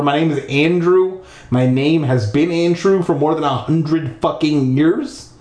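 insistent correction. Acted. Ghost boy correcting the girl's mistake, insistent. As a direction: insist on the name, voice lifted. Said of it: "he corrected her".

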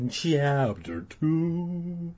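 slow, drawn-out announcement with a held ending; drawn-out chapter call. Pretend. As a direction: stretch the chapter title out slow and high. Sing-song chapter announcement.

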